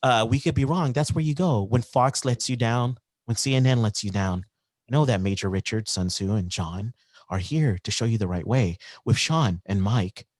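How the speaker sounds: smooth radio host voice; calm announcer read. Acted. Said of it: "I love your radio voice".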